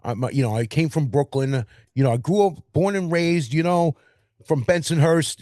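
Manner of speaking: mocking an overdone New York accent; a hammed-up Queens guy voice, lightly done. Mocking actors who overdo a New York accent. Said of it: "people do a New York accent and it's, like, overdone".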